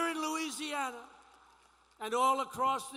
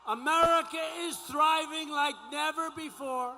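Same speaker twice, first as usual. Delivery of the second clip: rally speech. Acted.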